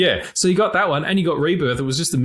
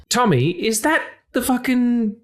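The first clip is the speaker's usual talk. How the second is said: gravelly voice; 9 semitones higher than usual. Real, not acted. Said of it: "my gravelly voice".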